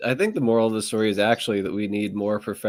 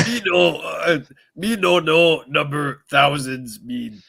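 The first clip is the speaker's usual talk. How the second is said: caveman voice; 3 semitones higher, slower than usual. Retold or imitated. Mocking Aaron's caveman voice.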